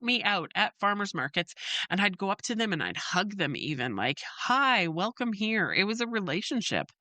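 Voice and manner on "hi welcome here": slow, tender hello to a regular; warm welcome. Retold or imitated. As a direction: greet an old friend with a hug. Hugging returning customers.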